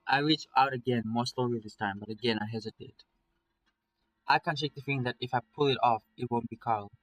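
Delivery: measured first-person story reading; story narration. A narrator's reading. Streamer reading a nightmare tale to viewers, story narration. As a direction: read it as an inner monologue.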